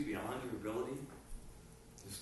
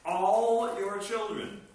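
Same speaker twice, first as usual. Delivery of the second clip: put-on All your children slow and louder; emphatic slow; 4 semitones higher, 7 dB louder, much slower than usual. Preacher promising parents their children, slow emphatic stress.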